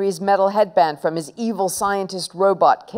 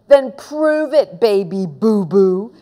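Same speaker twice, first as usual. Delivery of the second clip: taunting; slower than usual. Acted. Henry taunting Peter.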